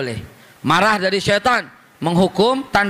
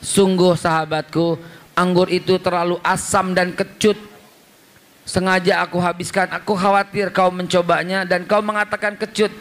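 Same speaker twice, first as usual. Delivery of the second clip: lower, calm, kindly voice of the Prophet; lowered, gentle telling of the Prophet's words; the Prophet speaking gently; 3 semitones lower than usual. Retold or imitated. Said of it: "Apa kata Nabi?".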